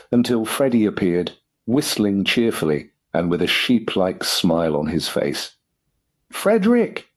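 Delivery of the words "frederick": high-pitched cry of the name; angry shout. A narrator's reading. Angry father calling his son to a halt, shouted high. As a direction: call out sharply, voice leaping up. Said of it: "shouted his lordship".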